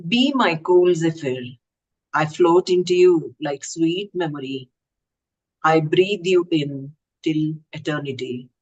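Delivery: measured recital, each line set apart by pauses; poetry reading. Acted. Poet presenting a love poem to an online gathering, poetry recital.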